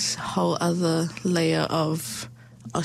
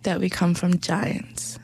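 measured, heartfelt poem recital; spoken word poem. Acted. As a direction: read it like a letter to your son. Reads her poem aloud.

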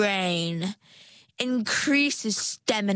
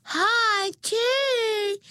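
high, loud excited squeak; rasping tiny voices; 14 semitones higher, 3 dB louder than usual. A narrator's reading. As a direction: shriek it like a crowd of critters. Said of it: "rasped a hundred tiny voices".

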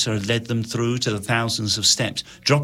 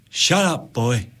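snarled; 3 semitones higher, slower than usual. Acted. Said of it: "snarled the soldier".

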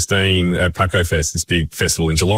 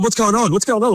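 high, startled workmate asking what's up; lightly voiced bewildered coworker; puzzled site worker. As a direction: pitch up like a confused mate on site. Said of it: "the guy's going".

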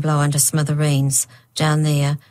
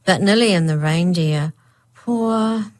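about to cry; 2 semitones higher than usual. Acted. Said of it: "Lisa started to cry".

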